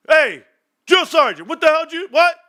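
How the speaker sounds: high, loud incredulous outburst; mock shocked protest. Soldier questioning drill sergeant's crude cadence, mock shock. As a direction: break off the chant in mock disbelief. Acts reaction within the cadence story.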